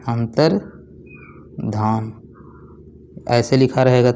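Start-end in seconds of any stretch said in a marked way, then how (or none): 0.1-2.1 "अंतर्धान" stretched very slowly and softer, as if writing it; very slow, soft dictation. Shown as a demonstration. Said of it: "ऐसे लिखा जाता है". ("अंतर्धान" बहुत धीरे और धीमी आवाज़ में, लिखते हुए)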